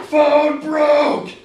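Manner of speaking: high, very loud caveman bellow; brutish shout. A narrator's reading. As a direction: shout it like a big dim brute. Brute Harry exclaims over phone.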